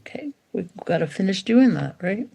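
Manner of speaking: soft unvoiced whisper to the dog; whispered call. Shown as a demonstration. Owner whispering to dog in the garden, hushed. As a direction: whisper it close so only the dog hears. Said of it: "tap him and be like".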